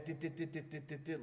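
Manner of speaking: quiet monotone dit-dit mimicry of a boring lecturer; droning teacher mock. Mocking his macroeconomics teacher to the class, soft droning monotone. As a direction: drone it softly like a dull economics teacher. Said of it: "like my macroeconomics teacher".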